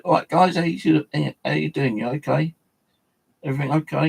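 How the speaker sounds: high-pitched hello to little mascots; playful greeting. Pretend. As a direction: check on pretend pals, voice lifted. Greets his mascots as if alive.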